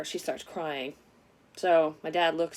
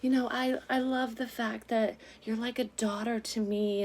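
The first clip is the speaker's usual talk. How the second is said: higher-pitched mock-sweet imitation; sugary sweet; 5 semitones higher than usual. Dad's girlfriend turning sweet as his truck pulls in, mock-sweet. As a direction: imitate someone laying on fake affection. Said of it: "being all sweet and like".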